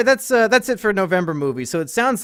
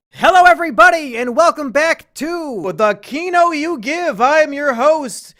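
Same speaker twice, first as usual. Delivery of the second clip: loud, slow, high hammed-up host intro; hammy show host; 13 semitones higher, 8 dB louder than usual. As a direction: announce it like a cheesy host.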